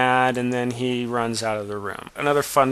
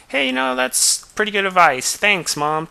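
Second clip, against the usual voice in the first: put-on grateful boy; 8 semitones higher, 3 dB louder than usual. Boy thanks parents.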